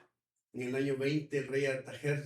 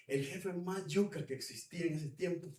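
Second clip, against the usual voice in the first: normal talking voice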